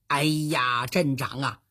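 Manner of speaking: impatient inner voice, building; acted impatience. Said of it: "早就等得不耐烦了".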